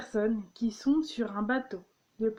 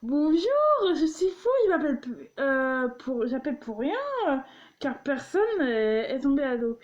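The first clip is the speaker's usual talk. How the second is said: mock phone caller; 2 semitones higher than usual. Acting out Fou calling firemen, hammed-up. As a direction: play the silly caller phoning for nothing. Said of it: "c'est comme si tu disais".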